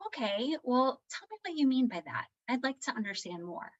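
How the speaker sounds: measured, composed parent voice; lightly put-on patient children's-show mother; Daniel Tiger's mom. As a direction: stay composed and invite the child to explain. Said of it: "just be very Daniel Tiger's mom on the".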